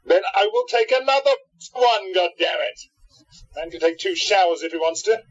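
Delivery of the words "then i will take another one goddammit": raised, exasperated retort pitched up high; flinging the words back in irritation; angry outburst. Acted. Joe storming off, snapping at his friend, exasperated. Joe snaps at nagging companion.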